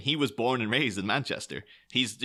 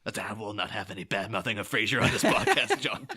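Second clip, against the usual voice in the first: mock outrage. Pretend outrage at insult to Frasier.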